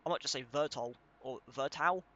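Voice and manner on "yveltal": "Vertau" ending in an "ow" sound, as a question; unsure "Vertau", no Y at the start; guessed pronunciation. Real, not acted. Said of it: "I don't know how to pronounce that".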